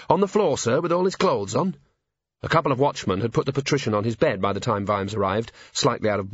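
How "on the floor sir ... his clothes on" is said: high, matter-of-course junior officer; earnest constable. A narrator's reading. Constable explaining to commander how he knew, earnest. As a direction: answer in a high, dutiful voice.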